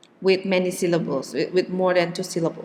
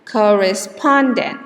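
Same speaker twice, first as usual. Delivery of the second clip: "correspondent" with light stress on COR and main stress on SPON; cor-re-SPON-dent; secondary and primary stress; 5 dB louder than usual. Shown as a demonstration. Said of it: "is pronounced as".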